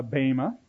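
bema as BAY-ma, long A in the first syllable; Greek pronunciation. Shown as a demonstration. Teacher giving students the Greek term bema, pronounced BAY-ma. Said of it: "please, it's not bema, it's bema".

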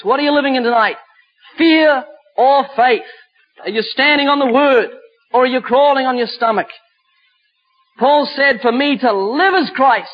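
measured, ringing declarations with weighty pauses; emphatic preaching. Acted. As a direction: declaim it from the pulpit.

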